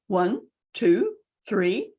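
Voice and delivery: "one", "two", "three" each lifting upward; rising list tune. Shown as a demonstration. Coach mid-list, "one, two, three" each rising. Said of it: "in the middle of a list".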